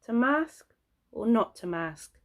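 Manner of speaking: high rise on "mask", fall on "not"; mock Shakespeare. Shown as a demonstration. Vlogger parodying Hamlet, theatrical recital. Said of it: "Hamlet parody".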